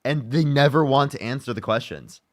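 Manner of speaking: exasperated rant, rising in pitch; annoyed. Real, not acted. Streamer fed up with unanswered questions, exasperated. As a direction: vent your annoyance at evasive answers. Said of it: "I'm getting so annoyed".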